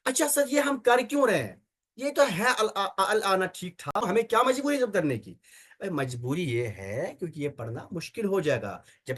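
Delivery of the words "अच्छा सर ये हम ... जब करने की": student's objection. Retold or imitated. Teacher voices a student's objection.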